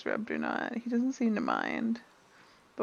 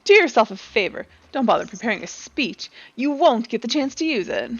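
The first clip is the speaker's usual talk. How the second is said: a hint of a cocky rival, taunting; smug rival NPC; 7 dB louder than usual. Game character taunting a rival chef, mildly cocky. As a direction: sneer at the newcomer, lightly voiced.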